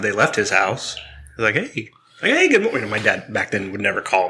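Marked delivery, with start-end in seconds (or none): 1.6-2.9 high, overly sweet fake-casual greeting; a dad fishing for info, falsely cheerful; imitating dad. Imitating his dad's call after the cops came, high and overly sweet.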